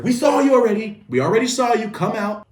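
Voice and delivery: high, loud call to someone hiding; imitated searchers' shout. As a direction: holler it across a yard. Searchers calling out to hiding kid.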